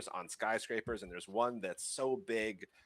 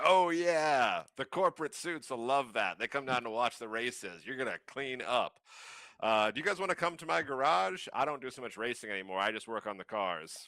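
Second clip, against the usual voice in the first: lightly voiced, higher, pleased racer; smiling Darwin; 4 semitones higher, 3 dB louder than usual. Game master as Darwin welcoming players to his garage, mildly upbeat. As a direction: say it through a smile, lightly in character. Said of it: "and he smiles, and he's like".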